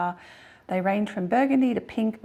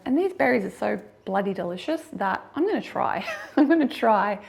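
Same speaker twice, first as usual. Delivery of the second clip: laughing. Real, not acted. Laughing while declaring she'll try.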